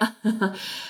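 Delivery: short, soft put-on giggle; mimicked giggling; imitated giggle. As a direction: give a quick little giggle, quietly.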